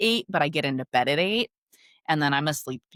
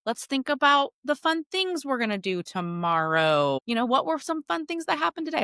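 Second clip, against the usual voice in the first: put-on soothing a child; 5 semitones higher than usual. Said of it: "I would say".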